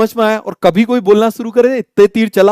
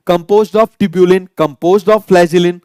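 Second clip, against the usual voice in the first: slow dictation; much slower than usual. Shown as a demonstration. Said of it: "आ जाओ जरा parts".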